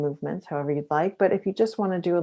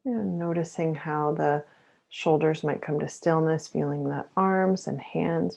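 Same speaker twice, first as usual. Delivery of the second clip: guided meditation. Acted. Mindfulness teacher pacing listeners through shoulder rolls with the breath, guided meditation. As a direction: lead each breath and movement unhurriedly.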